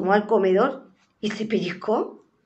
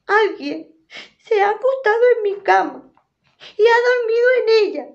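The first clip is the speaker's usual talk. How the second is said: very high, louder tiny cub voice; little bear discovering someone in his bed; 13 semitones higher, 5 dB louder than usual. Acted. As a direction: whine it like a small upset cub.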